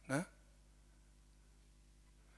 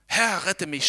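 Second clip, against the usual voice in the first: mock cry; 4 semitones higher, 8 dB louder, slower than usual. A narrator's reading. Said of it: "schrie er".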